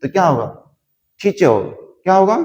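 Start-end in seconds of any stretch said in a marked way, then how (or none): 1.2-1.6 टीचर with a hard, ठ-like T and no final R sounded; teacher without the R. Shown as a demonstration. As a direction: say टीचर as ठीचअ, dropping the R. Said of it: "आर को मत बोलना".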